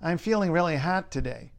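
Great Lakes city accent, HOT edging toward "hat". Shown as a demonstration. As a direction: say it like a Detroit local, fronted vowel in HOT. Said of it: "people from the big Great Lakes cities say hot".

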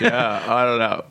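put-on slow, laid-back Vermont accent. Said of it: "I'm trying to do my old Vermont, um, my Vermont voice".

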